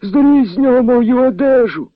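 high, loud, panicked cry from a nightmare; desperate shouting. A narrator's reading. Feverish colonel wakes from a nightmare screaming desperately. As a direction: scream for help in terror. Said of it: "кричав голосно, відчайно".

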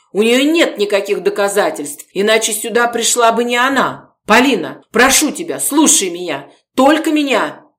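cling to her loyalty; loud pleading. Acted. Gorodetsky pleading over the guest.

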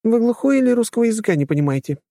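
high, scornful lady's voice; haughty companion. A narrator's reading. Snobbish companion scolding man in queue, high and scornful. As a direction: talk down to him as if he's stupid.

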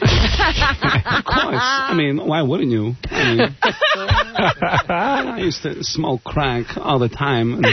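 mix a Walken read into the cabbie; Christopher Walken as Crazy Cabbie. Acted. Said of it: "Christopher Walken doing, uh, Crazy Cabby".

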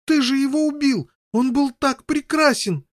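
high, loud grieving shout; outcry. Acted. Boy shouting at brother over dead unicorn. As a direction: wail the loss out loud. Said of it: "воскликнул Гаррет".

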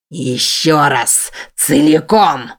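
slow, heavy beast's command; a growled demand dragged out; snarled order. Acted. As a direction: bark it slowly like a monster. Monster demands her to repeat.

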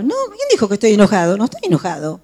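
rapid, defensive mock-angry denial; mock furious denial. Furious person denying it to whoever asked, acted mock-indignant. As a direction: fire it back, lightly acting someone furious. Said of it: "lo ven que está furioso".

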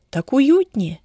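plain reading voice

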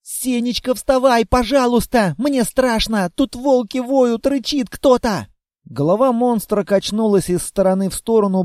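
put-on a small girl scared of the wolves; frightened little girl.

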